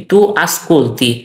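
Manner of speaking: very slow, drawn-out Italian; careful teacher's example; slow model phrase. Shown as a demonstration. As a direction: space the words out for learners. Teacher models verb form for learners.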